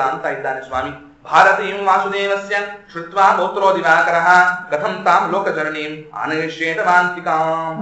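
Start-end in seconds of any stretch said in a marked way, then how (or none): 1.3-7.8 shloka recitation. Acted. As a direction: recite each syllable deliberately. Sanskrit verse recited. (ನಿಧಾನವಾದ ಶ್ಲೋಕ ಪಠಣ)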